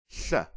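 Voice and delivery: "Th" with air forced past the side teeth; isolated sound. Shown as a demonstration. Teacher demos the unique Adigabsa sound, careful and isolated. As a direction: push air sideways for "Th". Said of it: "Let's give it a try".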